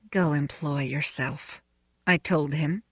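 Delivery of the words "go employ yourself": soft, slow, under the breath; very quietly. A narrator's reading. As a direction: say it so no one overhears. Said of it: "very quietly".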